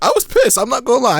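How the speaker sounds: high laughing outburst; cracking up. Real, not acted. Laughing recalling anger.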